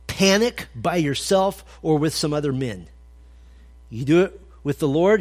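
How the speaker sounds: normal talking voice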